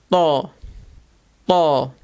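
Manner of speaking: to with a heavy, dark T and open aw vowel; to as the Arabic emphatic T, mouth barely open. Shown as a demonstration. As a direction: say to like the start of tall, insisting on the T. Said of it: "a very emphatic T sound".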